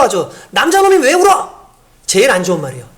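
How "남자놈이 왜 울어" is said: a sharp reproach, higher and a bit louder; a parent telling a boy not to cry; mock scolding parent. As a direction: scold a crying boy with contempt. Parent snaps at crying boy.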